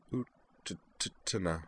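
a tiny broken call; small voice. A narrator's reading. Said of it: "said Kate in a small voice".

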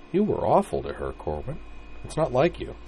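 gentle, worried reproach; concerned. Acted. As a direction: chide him kindly. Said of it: "said with concern in her voice".

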